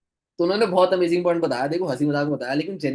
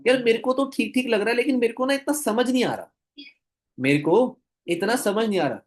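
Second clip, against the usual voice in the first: imitating Jatin sir; 3 semitones higher than usual. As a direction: sweet-talk a friend into it, pitched up. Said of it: "मैं same उसी तरीके से बताऊंगा जैसे Jatin sir ने मुझे बताया था".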